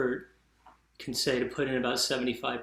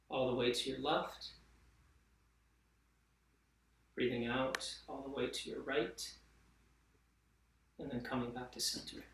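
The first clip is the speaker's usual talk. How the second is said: calm, unhurried guiding voice with long pauses; easy instructor's voice, softening as it goes; guided mindful movement. Real, not acted. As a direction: gently guide them through grounding and breathing. Leads slow grounding and breathing exercise.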